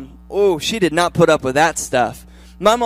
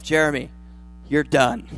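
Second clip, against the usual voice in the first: a firm pep talk building louder; self pep talk; 5 dB louder than usual. Retold or imitated. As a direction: give yourself a firm, rising pep talk. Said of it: "I have to say to myself".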